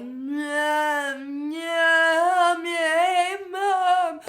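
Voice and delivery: high, loud, garbled cries for mom; desperate slurred calls. Retold or imitated. Daughter collapsing in the hallway, calling her sleeping mom, high and garbled. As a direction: call out to mom, scared and unable to form words. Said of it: "making no sense whatsoever".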